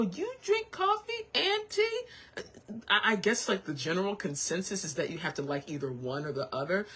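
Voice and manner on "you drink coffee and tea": high, slow mock disbelief; high drawn-out mock shock at coffee and tea; incredulous question. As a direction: play the baffled skeptic. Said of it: "I am so surprised at people who go".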